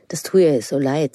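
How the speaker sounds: whispered sympathy. Acted. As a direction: breathe it out without voice, full of pity. Aunt consoling in the hallway. (geflüstertes Mitgefühl)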